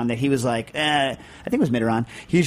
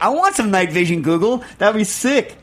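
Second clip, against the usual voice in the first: excited; 5 semitones higher than usual. Retold or imitated. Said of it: "I'm like".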